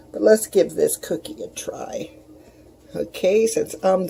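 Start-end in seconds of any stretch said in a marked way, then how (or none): 0.1-2.1 whispering. Real, not acted. About to taste the cookie.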